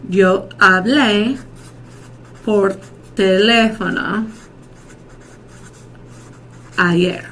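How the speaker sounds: slow, long pauses between phrases; word by word. Shown as a demonstration. Teacher models a past tense example to class, slow and broken up. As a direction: draw out "Yo hablé", pause before "ayer".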